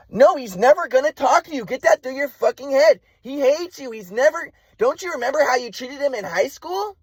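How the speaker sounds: high-pitched mock tirade from mom; angry mother imitation. Mom refusing son a talk with dad, angry mock tirade. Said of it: "And my mom's like".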